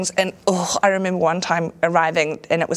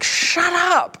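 mock snap; 11 semitones higher than usual. Snapping at heckling friend.

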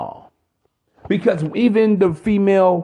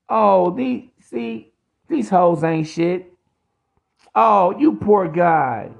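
a hint of a condescending soothing woman; mock consoling woman; 3 semitones higher than usual. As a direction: coo like a woman consoling a sad man. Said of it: "You want a pat on your back".

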